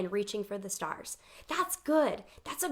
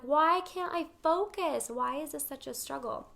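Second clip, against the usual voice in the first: frustrated self-talk; 3 semitones higher than usual. Retold or imitated. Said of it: "I was so angry".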